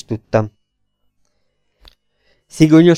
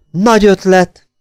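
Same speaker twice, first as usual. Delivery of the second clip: mock congratulation, higher and brighter; congratulating tone; 6 semitones higher, 4 dB louder than usual. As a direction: pat him on the back. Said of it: "gratuláló hangon".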